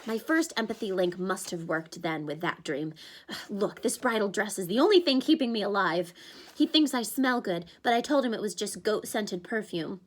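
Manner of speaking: put-on a panicky young satyr; Grover's voice. Grover continues.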